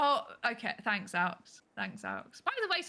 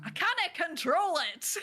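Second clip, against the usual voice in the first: put-on slow Irish accent; 5 semitones higher than usual. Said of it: "going into Northern Irish".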